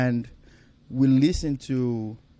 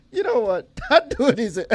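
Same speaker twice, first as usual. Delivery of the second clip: much higher, laughing through the words; laughing quote; 10 semitones higher, 5 dB louder than usual. Retold or imitated. Retelling the comedian's punchline, laughing as he quotes it. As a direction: crack up mid-line.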